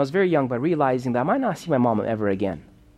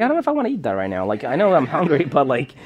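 put-on doubtful kid; faster than usual. Kid hesitant about strange food.

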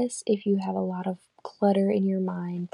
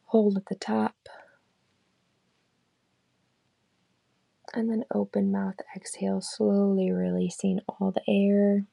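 calm, unhurried meditation guide; guided meditation. Acted. Leading listeners through a body scan, calm guided meditation. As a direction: lead them gently through the body scan, leaving long pauses.

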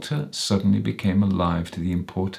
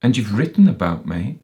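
raised, higher accusing voice; louder, pitched-up reproach; voice rising; 4 semitones higher, 5 dB louder than usual. A narrator's reading. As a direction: lift the voice in accusation. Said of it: "his voice rose".

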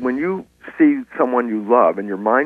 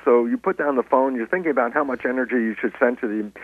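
ordinary talk, nothing marked

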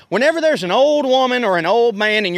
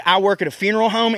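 funeral home energy; faster than usual. Pretend. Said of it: "because he had big".

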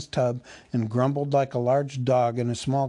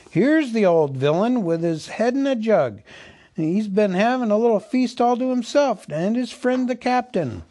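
high, louder jeering elf voice; mocking elf; 8 semitones higher, 5 dB louder than usual. Elf mocking the drunk butler to the others, high and jeering. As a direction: jeer at the old butler with glee.

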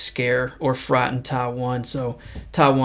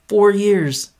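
Four years punched higher and louder; emphatic four years; 7 semitones higher, 5 dB louder than usual. Real, not acted. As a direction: hit Four years hard, marvelling. Emphatic repeat of quote detail.

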